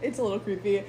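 giggling admission; laughing. Real, not acted. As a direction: laugh it out, caught out. Laughing at herself.

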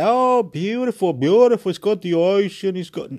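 high, loud gushing "beautiful"; mock gushing admirer; gushing others. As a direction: gush like a starry-eyed tourist. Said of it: "But others say".

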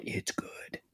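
soft, hushed aside: „It's good“. Acted. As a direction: drop it to a hush for the payoff.

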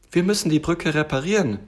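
a hint of a keen little tiger; eager little tiger. Tiger proposes bridge repair to bear, eager.

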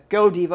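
Godiva said loud as go-DEE-vuh; loud Godiva, like go plus diva; alternative pronunciation. Shown as a demonstration. Host listing the product's possible names, Godiva as go-DEE-vuh. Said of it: "not Godiva".

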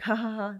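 mock "ha, ha, ha" laugh; imitated mocking laugh. Groper laughs with his buddies, imitated laugh. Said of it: "They're all laughing".

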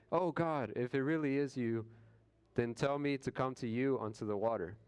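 lightly voiced Peter, earnest and pleading. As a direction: beg God to prove it is really him. Voicing Peter challenging Jesus.

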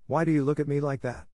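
high-pitched indignant demand. A narrator's reading. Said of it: "she demanded".

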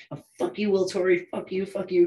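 high-pitched mock screaming rant; imitated screaming. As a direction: imitate an angry woman screeching insults.

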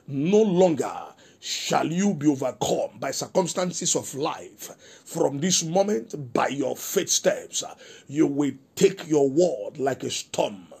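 measured, solemn prophetic declaration; prophetic prayer. Acted. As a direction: pronounce a blessing over the listeners like a prophet. Pastor prophesies over listeners.

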